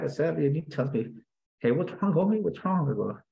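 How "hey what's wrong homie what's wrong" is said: higher-pitched questioning, lightly voiced cellmate; a hint of a concerned buddy. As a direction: lightly imitate a cellmate checking in. Cellmate asks what is wrong.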